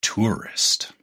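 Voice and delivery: slow, drawn-out announcer reveal with a hushed final word. Pretend. Revealing the secret word to listeners, slow announcer voice. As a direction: unveil the secret word like a radio host. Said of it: "I could do my announcer voice".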